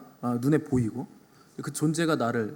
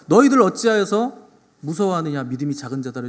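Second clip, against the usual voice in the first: loud, raised rebuke easing off at the end; acted scolding of frightened followers; rebuking; 2 semitones higher, 6 dB louder than usual. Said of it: "이렇게 꾸짖으신". (꾸짖는 듯한 말투)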